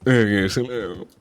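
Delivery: slow, a touch of the posh gentleman voice; slow, mock-refined greeting. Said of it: "Stop it".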